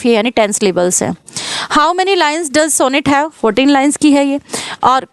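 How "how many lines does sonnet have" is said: slow question read. Shown as a demonstration. Teacher reads exam question.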